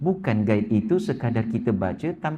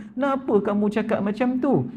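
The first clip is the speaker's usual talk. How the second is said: annoyed courtiers; 8 semitones higher than usual. Retold or imitated. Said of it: "Marah orang yang ada".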